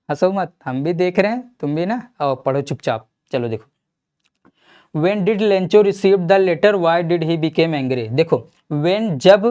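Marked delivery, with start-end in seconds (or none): 4.9-8.1 very slow, word by word reading of the question; slow dictation read. Acted. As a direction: read it out slowly so students can write. Teacher dictates the next questions.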